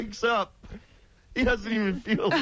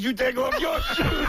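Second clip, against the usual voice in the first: mock angry retort; 6 semitones higher than usual. Retelling Beetle firing back at the metal detector lady, mock angry. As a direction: throw the order right back at her.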